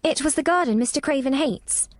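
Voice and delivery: nervous. A narrator's reading. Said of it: "said Mary nervously".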